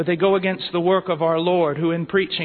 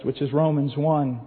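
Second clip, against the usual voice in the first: usual speaking voice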